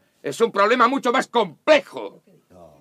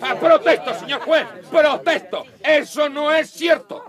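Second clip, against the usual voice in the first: indignant objection; 4 semitones higher than usual. Acted. Objecting in court.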